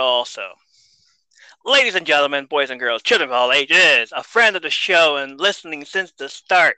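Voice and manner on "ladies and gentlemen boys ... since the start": ringmaster. Acted. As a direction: announce her like a ringmaster. Announcing guest like ring announcer.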